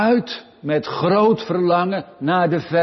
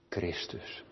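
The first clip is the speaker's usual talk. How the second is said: whispered; 8 semitones lower, 18 dB quieter than usual. Real, not acted. Awed answer in sermon.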